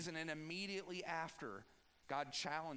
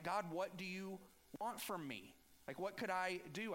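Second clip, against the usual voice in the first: mock-sarcastic, pitched up; sarcastic whine; 5 semitones higher than usual. The people answering God, mock-sarcastic and higher. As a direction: toss it back sarcastically at God. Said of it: "do you see the sarcasm even in what they're saying".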